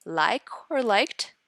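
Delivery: "like or liked" said slowly, each word held apart; slow, set-apart words. Shown as a demonstration. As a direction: lay out "like or liked" slowly so they notice. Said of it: "Focus on the words".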